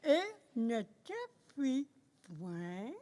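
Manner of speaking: wrong word point, pencil in mouth; pen in teeth. Real, not acted. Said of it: "avec un crayon dans la bouche".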